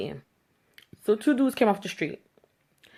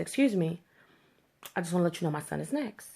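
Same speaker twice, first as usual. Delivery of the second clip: calm, no attitude; 6 dB quieter than usual. Retold or imitated. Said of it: "Calm, no attitude, no nothing".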